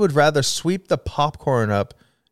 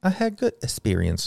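quieter, light and pleased; soft cheery; 6 dB quieter than usual. Acted. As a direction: drop it soft and sweet. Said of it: "Why are you saying it like that?".

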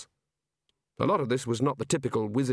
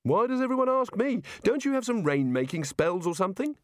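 high-pitched exasperated protest; exasperated Rincewind; 9 semitones higher than usual. Acted. Rincewind is pressed to fix the drought, exasperated.

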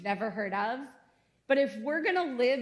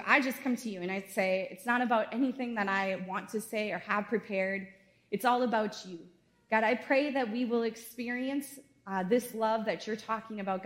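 earnest prayer. Acted. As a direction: pray gently over the congregation. Pastor leads congregation in prayer.

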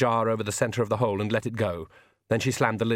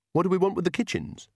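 put-on raised, puzzled old woman; 8 semitones higher than usual. A narrator's reading. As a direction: ask it baffled, high. Nanny voiced puzzled.

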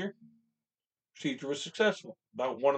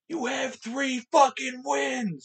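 higher, slow taunting yell; retold taunting yell; 11 semitones higher, 3 dB louder, much slower than usual. Fan in the stands taunting rival fans, slow mocking yell. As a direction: drag out every word to rub it in. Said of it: "I'm screaming".

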